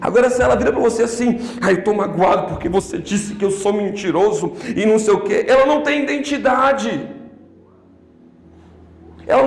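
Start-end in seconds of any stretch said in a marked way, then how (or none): 1.7-5.4 mock self-pity, lower and quick; whiny hurt complaint. Preacher mocks an offended church member, whiny and quick. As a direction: play the wounded one, complaining in a rush.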